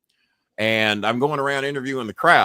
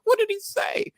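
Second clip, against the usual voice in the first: very high-pitched outraged question; high mock shriek without much volume; retold screaming; 4 dB quieter than usual. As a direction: imitate an irate boss, pitch shooting up. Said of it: "yelling and screaming at me".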